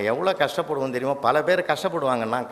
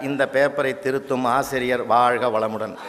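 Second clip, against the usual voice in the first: reading student's blessing; 4 semitones lower than usual. Retold or imitated. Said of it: "அவன் எழுதிக்கிறான் sir".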